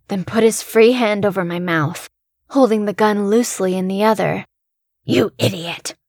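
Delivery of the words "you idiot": hissed. Acted. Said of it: "he hissed".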